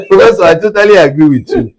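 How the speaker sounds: high, loud, fast sarcastic politeness; sarcastic agreement. Retold or imitated. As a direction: agree too eagerly, with a sneer. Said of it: "I'm sensing a form of sarcasm there".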